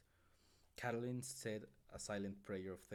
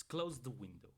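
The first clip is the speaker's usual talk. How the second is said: pleading; 4 semitones higher, 5 dB louder than usual. A narrator's reading. Mother begging son.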